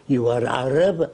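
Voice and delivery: imitated Arab man's accent; a light Arab accent on a question. Arab leader questioning the caller, in an imitated Arab accent. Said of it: "He said in his accent".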